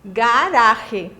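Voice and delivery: "Garage" with a rasped jota before the final e; throat sound on the second G; Spanish jota demo; Spanish guttural G. Shown as a demonstration. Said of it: "o G em espanhol".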